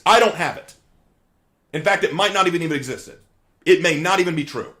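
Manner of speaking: loud, high courtroom lawyer voice; honeyed southern lawyer drawl. Acted. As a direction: grandstand to the jury. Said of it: "Let's say that I'm a lawyer".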